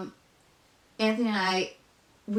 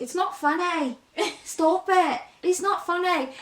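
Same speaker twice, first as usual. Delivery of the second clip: mock protest; 8 semitones higher, slower than usual. Reacting to funny kids with accents, high mock protest. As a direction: beg them to stop, half-joking. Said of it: "and I was like".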